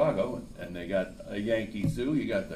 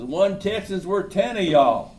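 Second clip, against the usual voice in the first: high, loud and slow, bellowing from the hilltop; defiant shout; 8 semitones higher, 7 dB louder, slower than usual. Acted. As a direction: dare the whole army to come at you. Texan calls down from hill.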